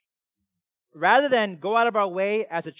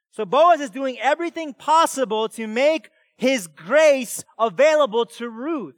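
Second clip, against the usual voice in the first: loud, raised-pitch scripture exposition; preaching; 7 semitones higher, 11 dB louder than usual. Real, not acted. Preacher explaining how Boaz makes grace available to Ruth, forceful preaching. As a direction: drive each instruction home to the room.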